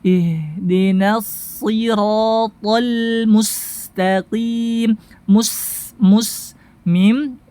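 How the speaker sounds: slow, elongated tajwid recitation; careful verse drill, long vowels and sharp S; recitation practice. Shown as a demonstration. Teacher leading practice, slow measured recitation. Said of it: "Kita masuk kepada praktek".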